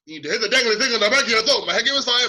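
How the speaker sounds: mock tutorial. Hammed-up mock tutorial demo.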